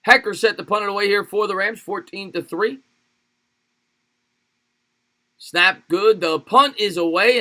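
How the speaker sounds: announcer lift, stretching the key calls; live play-by-play. Real, not acted. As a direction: call the punt live with drawn-out words.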